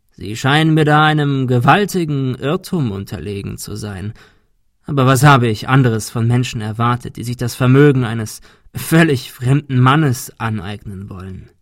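lightly voiced hoarse villain, mocking. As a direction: sneer it out like a bitter old man.

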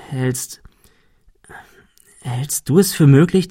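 hesitant whisper. Acted. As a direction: whisper it, afraid to ask. Hesitant secret question about murder.

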